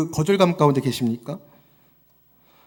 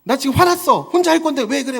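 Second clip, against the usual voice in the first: put-on higher pitched, indignant little kid yelling at dad; angry child; 8 semitones higher than usual. Child scolding her father, mock angry and much higher. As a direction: stamp your foot like a cross toddler. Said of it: "저한테 호통을 칩니다".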